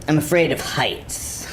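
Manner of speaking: sheepish, slow, laughing admission; embarrassed laugh. Acted. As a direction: admit it while laughing at yourself. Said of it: "this is kind of embarrassing".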